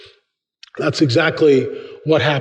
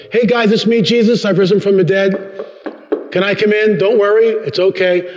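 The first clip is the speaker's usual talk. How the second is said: cheery Jesus; 3 semitones higher than usual. Acted. Jesus knocks, cheerful acted voice.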